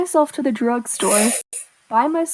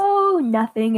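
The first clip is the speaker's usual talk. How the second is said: sarcastic; 3 semitones higher, slower than usual. Retold or imitated. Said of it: "in a very sarcastic way".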